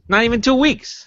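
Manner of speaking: high, sing-song mock repeat; a high mocking echo. Real, not acted. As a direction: pitch it way up to mock. Repeated higher as a joke.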